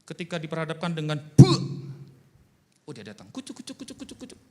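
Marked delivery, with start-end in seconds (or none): 1.2-1.6 loud, high popped "buh"; explosive imitated puff; sudden "buh" burst. Imitated noise in a story. 3.3-4.4 high, soft repeated patter; quiet high-pitched mock patter; comic "kucuk-kucuk" patter. Imitated noise of someone approaching.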